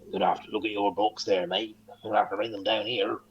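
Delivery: mock Cornish schoolmaster; Cornish sailor teacher. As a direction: do an old Cornish sailor's accent. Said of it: "he used to be like".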